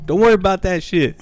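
high, laughing retold dismissal; excited brush-off cracking into a laugh. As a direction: wave it off through laughter.

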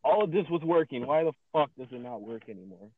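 fed-up gear-failure rant; mad. Real, not acted. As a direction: complain in real frustration, falling off toward the end. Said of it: "Fucking mad".

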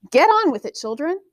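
put-on father calling to his children to hurry. A narrator's reading. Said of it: "Amon called".

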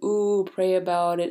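a light sneer at "pray about it"; mocking critic. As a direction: mimic a scoffing reader who rolls their eyes. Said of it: "people are gonna write me and be like".

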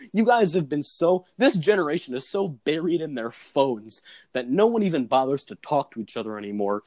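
hammed-up lecture on a whole generation; lightly acted aggrieved monologue; mock indignant rant. Acting the sketch's monologue rant.

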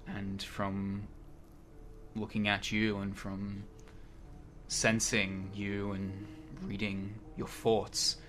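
slow, measured pronouncement to assembled warriors; lightly voiced solemn oracle. Telling gathered warriors they were brought here, solemn and slow.

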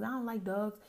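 imitating the guy's outraged excuse; 1 loud indignant guy. Guy explaining why he hates dogs, indignant loud. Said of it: "I'm like".

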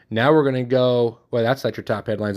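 ordinary talk

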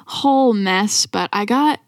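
talking with a swollen jaw; barely opening the mouth; after wisdom teeth. Real, not acted. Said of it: "You sound good. You're talking good".

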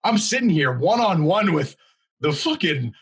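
exasperated reproach. Retold or imitated. His exasperated reproach to bystanders.

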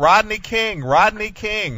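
demonstrated yell. Shown as a demonstration. Host shows prankster what to yell, calling out. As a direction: call the name out as a model yell. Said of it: "Yell out".

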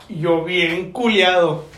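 slow, stretched-out admission; slowed right down for effect; drawn-out dread. Retold or imitated. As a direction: drag it out for comic dread. Tells of being caught by mother.

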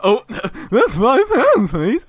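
high, loud, slow, laughing voice crack; mock voice break. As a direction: crack your voice on purpose to make fun of yourself. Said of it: "I'd be like".

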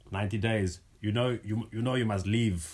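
put-on half-hearted German border officer accent, barely there; weak German accent. Boyfriend imitates a German border officer in a faint German accent. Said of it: "Baby, you can do a better German accent than that".

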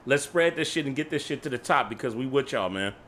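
upbeat host sign-off to listeners; podcast outro. Acted. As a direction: hype up the audience warmly.

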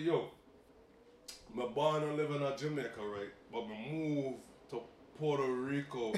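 lightly voiced Yardie with Puerto Rican touch; Jamaican Yardie accent. Jamaican auction worker telling his story, imitated Yardie accent. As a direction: imitate a Jamaican man's patois. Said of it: "the Jamaican, the Yardie side".

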